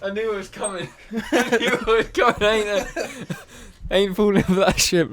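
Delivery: high laughing mock panic; giggly sneering imp. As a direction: laugh it off in a squeaky voice. Mock goblin reacting, laughing.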